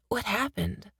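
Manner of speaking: hoarse, breathy whisper; barely voiced, throat dry. A narrator's reading. Weak patient asks in whisper.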